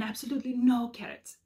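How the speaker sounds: lightly put-on French accent; a hint of mock French accent; attempted French accent. Shown as a demonstration. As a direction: have a go at an amateur French accent. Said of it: "that's how I try to read it".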